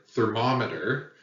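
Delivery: thermometer with a heavy MOM; stress on second syllable. Shown as a demonstration. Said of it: "heavy emphasis on the second syllable".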